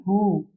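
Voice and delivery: हु as a short "hu" syllable; visarga as hu. Shown as a demonstration. Teacher explaining visarga after short u, said hu. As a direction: breathe the visarga out as हु. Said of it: "विसर्ग का उच्चारण क्या कर रहे हैं".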